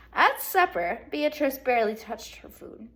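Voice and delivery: lively read-aloud to second graders; bright classroom storytelling; storybook reading. Acted. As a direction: read it like story time for kids.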